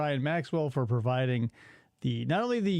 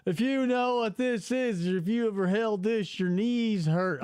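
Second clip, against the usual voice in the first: put-on Southern accent. Host mocking nostalgia posts, in a Southern accent. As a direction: read it like a Southern social media poster. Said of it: "always hear it in a Southern accent".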